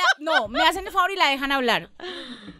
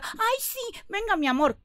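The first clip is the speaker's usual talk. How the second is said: mock welcome; 7 semitones higher, 5 dB quieter than usual. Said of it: "y uno diga".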